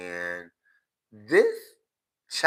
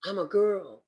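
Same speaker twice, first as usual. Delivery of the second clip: higher mock-girly voice; mock girly quote; 8 semitones higher than usual. Vlogger imitating young gays in wigs, higher and mocking. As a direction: toss the line up high to mock them. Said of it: "and saying".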